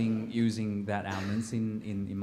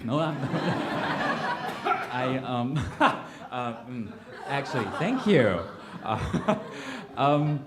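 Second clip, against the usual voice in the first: breaking into embarrassed laughter mid-sentence; laughing; 5 semitones higher, 7 dB louder, slower than usual. Real, not acted. Playwright laughing at her own confession. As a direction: laugh it off, higher and louder. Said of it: "laughs through embarrassed admission".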